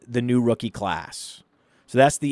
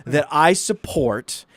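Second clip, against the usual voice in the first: higher, emphatic, indignant telling-off; furious wife; 5 semitones higher, 4 dB louder than usual. Retold or imitated. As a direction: imitate a wife angrily putting her husband in his place. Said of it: "And she was, like, furious".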